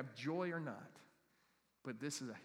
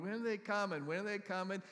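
mock impatient waiter; 6 semitones higher, 5 dB louder than usual.

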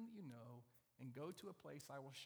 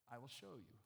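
calm, softer, lower reply; unruffled God; 3 semitones lower, 4 dB quieter than usual. Acted. God answering Abram's question, calm and low.

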